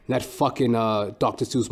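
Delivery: ordinary talk, nothing marked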